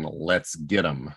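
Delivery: flat, unconvinced. Shown as a demonstration. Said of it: "I don't know how I feel about the line".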